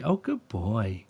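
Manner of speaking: put-on soft, slow, calm good boy; calm praise. Shown as a demonstration. Trainer shows owner calm praise for dog. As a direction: praise gently without revving him up. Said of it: "but also calm with it".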